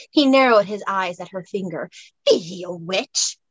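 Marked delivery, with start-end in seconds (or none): 2.3-3.4 put-on Scottish accent. A narrator's reading. Highlander character voice.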